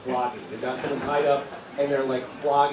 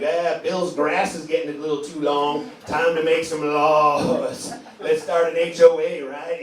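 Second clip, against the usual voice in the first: mock fussy neighbor; 4 dB louder, slower than usual.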